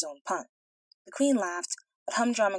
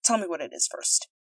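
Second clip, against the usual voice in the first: king speaking. A narrator's reading. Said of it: "said he".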